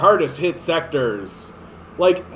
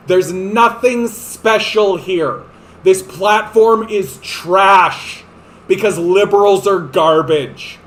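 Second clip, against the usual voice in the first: slow angry rant; 4 dB louder, slower than usual. Real, not acted. Ranting louder, slowed.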